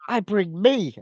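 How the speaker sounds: mock smug woman. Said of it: "she's like".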